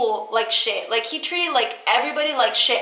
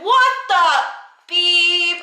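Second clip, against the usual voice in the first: high, loud outraged outburst; retold scream; 6 semitones higher, 3 dB louder, much slower than usual. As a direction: yell it in shock, imitating your own scream. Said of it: "I literally was screaming".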